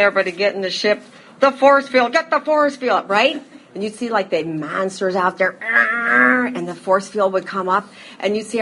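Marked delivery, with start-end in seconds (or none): 0.0-3.4 fast, urgent call to get in the ship, then louder and higher; louder, higher mock alarm; urgent play-acted command. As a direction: hurry everyone aboard like a kid playing spaceship. Acting out Lost in Space scene.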